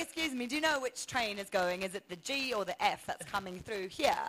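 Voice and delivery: lightly put-on British accent; polite British-accented enquiry. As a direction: pose as a British visitor. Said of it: "You've gotta do your British accent".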